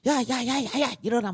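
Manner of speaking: loud, high, rapid-fire rousing shout; insistent high wake-up yell; waking kids up. Acted. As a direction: shout repeatedly to rouse a sleeping child. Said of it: "우리 애들 깨울 때".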